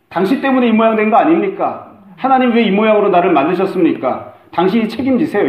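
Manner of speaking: accusing complaint. Retold or imitated. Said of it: "삿대질을 하는".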